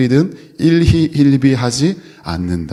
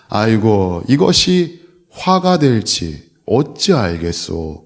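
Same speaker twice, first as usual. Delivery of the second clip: put-on calm old man; slower than usual. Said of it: "허허 웃으면서".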